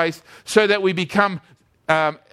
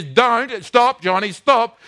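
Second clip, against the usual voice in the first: lightly acted mum, raised pitch; mum's urgent warning; 4 semitones higher, much slower than usual. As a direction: call out to halt a child. Mum calling out to stop child.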